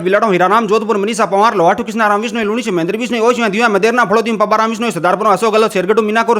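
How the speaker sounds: rapid-fire list recitation; all in one breath. Shown as a demonstration. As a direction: rattle off the names nonstop. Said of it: "दो सौ साठ second के अंदर बता दिए हैं".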